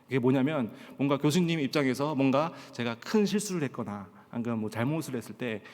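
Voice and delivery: ordinary talk, nothing marked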